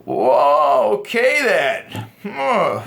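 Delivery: slow, amused whoa okay then; amused teasing. Shown as a demonstration. Man gently laughing at the girl's nerdy excitement. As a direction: laugh at her a little, kindly. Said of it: "kinda laugh at her a little bit".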